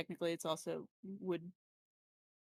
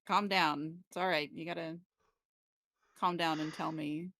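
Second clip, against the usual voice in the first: soothing; 2 semitones lower, 4 dB louder than usual. Acted. Character soothing panicked boy.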